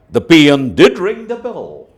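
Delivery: "did" given the weight; stress on did. Shown as a demonstration. Teacher showing emphatic did to pupils. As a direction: push did forward. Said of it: "if we want to, uh, emphasize".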